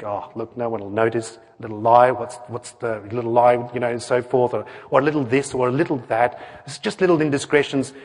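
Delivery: low, offhand muttered rationalising; casual self-excusing. Acted. Preacher voices our excuses for a little lie, casual self-excusing. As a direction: brush it off lightly, voice dropped. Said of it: "what happens is that we think".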